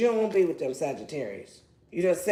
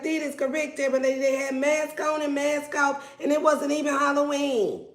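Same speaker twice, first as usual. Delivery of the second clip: higher, sassy confirmation; sassy agreement; 5 semitones higher than usual. Pretend. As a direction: confirm it with attitude. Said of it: "You're like".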